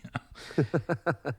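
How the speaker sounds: short high-pitched laugh at own joke. Real, not acted. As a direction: burst into a quick amused laugh.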